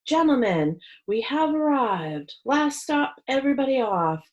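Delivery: calls up to the men like a driver announcing the last stop; calling out. Acted. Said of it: "Louie called up to them".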